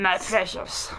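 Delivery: Smeagol impression. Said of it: "Smeagol from The Lord of the Rings".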